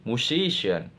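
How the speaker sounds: "musician" in syllables with stress on SI; stress before -ian. Shown as a demonstration. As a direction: lean on SI in "musician". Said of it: "Stress pattern".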